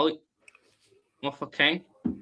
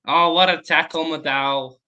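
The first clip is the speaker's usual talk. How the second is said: excited; 2 semitones higher, 7 dB louder than usual. Real, not acted. Reacting to a tackle.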